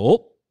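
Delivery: a sudden high, loud "Ope". Retold or imitated. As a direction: blurt "Ope" like bumping into someone. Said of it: "I bend over picking out my backpack and I go".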